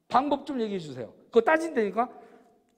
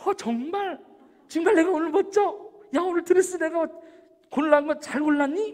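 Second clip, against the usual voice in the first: higher-pitched delighted surprise; eager, high fishing for more praise; excitable sociable type; 4 semitones higher than usual. Acted. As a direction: play someone thrilled by a compliment. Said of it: "생긴 타입은".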